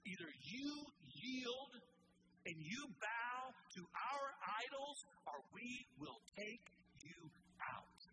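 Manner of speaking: preacher hamming up a culture's threats; threatening world. Retold or imitated. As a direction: lean in like a bully.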